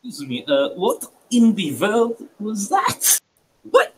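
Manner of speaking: acted shock, slow and rising; shaken bewilderment. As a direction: stretch out the question in rattled confusion. Character shaken by telepathic voice.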